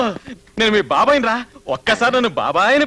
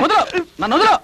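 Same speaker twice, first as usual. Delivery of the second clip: struggling cry; 9 semitones higher than usual. Acted. Struggling to break free.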